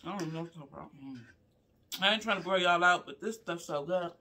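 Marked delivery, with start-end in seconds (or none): 2.0-4.1 talking while chewing; words round a bite of food; mouth full. Real, not acted. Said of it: "I can't hardly talk".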